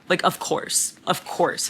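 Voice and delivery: whispered aside, unvoiced. Real, not acted. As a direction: breathe it out as a knowing aside.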